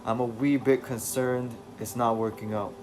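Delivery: put-on loose British accent for David; attempted British accent. David telling the reader about his mind, in a rough British accent. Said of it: "this will have to do".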